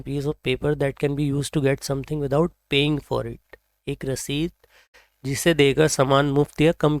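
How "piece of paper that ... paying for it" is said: very slow, every word laid out; slow definition reading. Shown as a demonstration. Teacher slowly reading the meaning to students. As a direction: read the definition slowly for learners. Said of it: "reads dictionary definition slowly".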